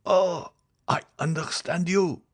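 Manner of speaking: high, slow anguished groan of a reply; a sufferer's high, despairing voice; dying man in agony. A narrator's reading. Said the unhappy man.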